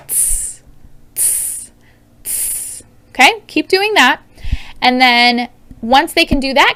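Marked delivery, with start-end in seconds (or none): 0.1-2.8 tss repeated, T bursting into S; tss sound. Shown as a demonstration. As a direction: say tss, tss, tss alone. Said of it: "saying the sound by itself".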